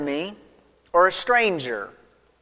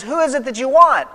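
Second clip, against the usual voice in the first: a touch louder, firm question; firm challenge; 5 semitones higher, 4 dB louder than usual. Retold or imitated. Jesus facing the arresting soldiers, firm and a touch loud.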